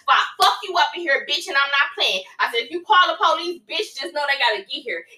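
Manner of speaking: retold threat. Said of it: "And I was steady talking shit".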